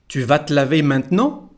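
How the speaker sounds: "vas te" as vat, "maintenant" as mant-nan; both contractions. Shown as a demonstration. Teacher modelling the sentence, "vas te" as vat, "maintenant" as mant-nan. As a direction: drop both Es in "te laver maintenant". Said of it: "we don't pronounce the letter E".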